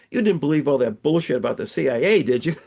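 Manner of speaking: a light chuckle as he delivers the punchline; chuckling farmer. Acted. Farmer teasing the driver about the dog's story, chuckling. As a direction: laugh it off, a touch amused. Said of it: "the farmer chuckles".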